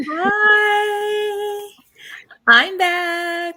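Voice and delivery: high, loud excited greeting; joyful reunion. Real, not acted. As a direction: cheer it out, thrilled to be back. Returning host greets her co-host.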